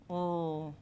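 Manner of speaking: L as a held clear l; l sound. Shown as a demonstration. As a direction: hold the l with the tongue up. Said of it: "l sound".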